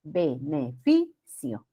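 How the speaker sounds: "Beneficio" slow and syllable by syllable, stressing FI; stressed penultimate syllable. Shown as a demonstration. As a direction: sound out "Beneficio" low and slow, leaning on FI. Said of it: "recae en la penúltima sílaba". ("Beneficio" silabeado despacio, con acento en FI)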